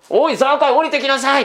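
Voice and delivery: gentle calling. Retold or imitated. Jesus calling Zacchaeus down from the tree, gently. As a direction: call him down without anger. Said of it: "怒ってないですよね".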